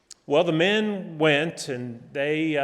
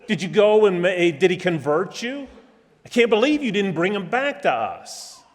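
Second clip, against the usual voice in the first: ridiculing; 4 semitones higher, 5 dB louder than usual. Retold or imitated. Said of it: "began to ridicule them and belittle them".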